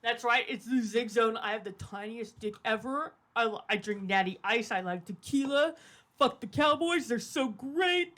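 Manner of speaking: lightly voiced macho guy bragging; mocking impression of Zig. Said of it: "Should I do my impression of Zig?".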